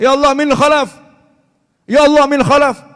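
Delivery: seru keras dan tinggi; teriak. Retold or imitated. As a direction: berteriak memanggil seperti panik. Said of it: "Sampai teriak". (ulama berteriak keras)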